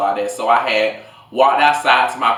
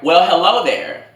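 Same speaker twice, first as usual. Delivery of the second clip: flirty greeting; 7 semitones higher, 5 dB louder than usual. Retold or imitated. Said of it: "And she was like".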